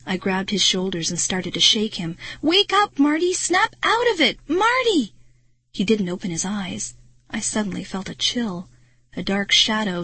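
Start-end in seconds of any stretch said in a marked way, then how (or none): 2.4-5.1 high, loud desperate cries; frantic urging. A narrator's reading. Girl shaking Marty to wake him, frantic. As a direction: shout to rouse someone unconscious.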